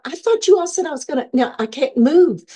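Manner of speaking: high-pitched, rushed objection easing down; retold protest. Patient told she is going on the treadmill, protesting. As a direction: object in disbelief, starting high and quick.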